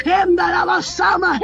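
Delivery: fervent shouted tongues. Real, not acted. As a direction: cry out in tongues.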